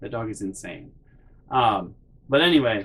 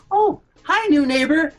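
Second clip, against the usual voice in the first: high, sing-song hello; chirpy mom greeting; 5 dB louder than usual. Retold or imitated. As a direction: greet the new neighbor brightly. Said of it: "And she's like".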